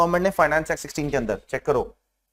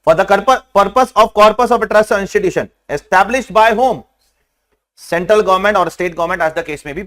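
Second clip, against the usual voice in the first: slow dictation; 5 dB louder, much slower than usual. Shown as a demonstration. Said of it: "check करो".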